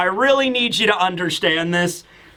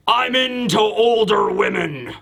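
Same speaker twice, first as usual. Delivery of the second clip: retold solemn giant. Giant's solemn close-up line, acted.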